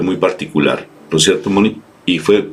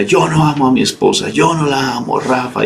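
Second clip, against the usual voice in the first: quoted husband; 8 semitones higher than usual. Retold or imitated. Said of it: "decía".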